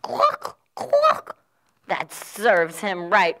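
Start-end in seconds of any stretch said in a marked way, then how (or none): 0.0-1.4 high hen clucks; clucking hens. Acted. Storyteller voicing the hens clucking smugly.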